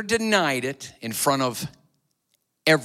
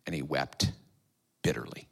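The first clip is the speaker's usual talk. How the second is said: much softer, fading into a whisper; sorrowful hush; 15 dB quieter than usual. A narrator's reading. Telling the church Peter wept, fading to a whisper. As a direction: let the grief fall to a whisper.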